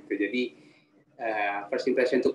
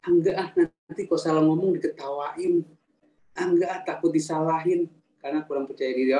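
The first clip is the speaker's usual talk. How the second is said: mock reluctant excuses, a little higher; embarrassed refusal; 3 semitones higher than usual. Teacher imitating people afraid of being laughed at, embarrassed refusal. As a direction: act out someone shying away from speaking. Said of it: "takut diketawain".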